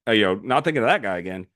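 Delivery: high, loud and breezy, brushing it all off; dismissive shrug-off. Retold or imitated. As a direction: toss it away like it's finished business. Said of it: "so now he's like".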